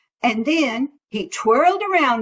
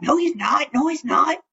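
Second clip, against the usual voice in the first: frog calling; 5 semitones higher, faster than usual. Acted. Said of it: "another frog called out".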